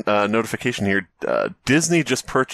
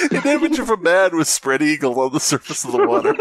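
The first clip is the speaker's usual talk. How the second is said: laughing; 5 semitones higher than usual. Real, not acted. Laughs while misreading the story.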